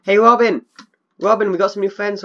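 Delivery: loud, high call across the field; calling from far away. Real, not acted. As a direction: call out to a distant dog.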